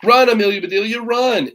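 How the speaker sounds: high, loud cheering yell. A narrator's reading. Boys yelling at their batter, high excited yell. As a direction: urge her to run. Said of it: "yelled the boys".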